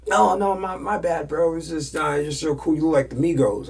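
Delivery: high, loud backpedalling bro; mock gushing apology. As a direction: apologize too eagerly, imitating a fan. Admirer apologizing after being told off.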